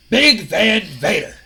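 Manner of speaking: ominous reveal. Retold or imitated. Vince reveals the dreaded opponent.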